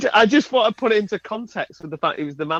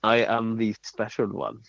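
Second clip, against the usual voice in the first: Jose Mourinho impression; 7 semitones lower, 4 dB quieter than usual.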